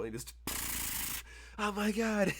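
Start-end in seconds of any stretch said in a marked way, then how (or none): 1.6-2.3 high, loud "oh my God"; shocked gasp. Acted. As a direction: react in shock to gunfire on the line. Johnson hears gunfire on phone.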